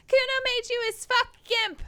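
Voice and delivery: high, loud bratty taunts; bratty kid gloating. Acted. Kuno taunting the fallen detective, high gloating. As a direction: gloat like an unstoppable brat.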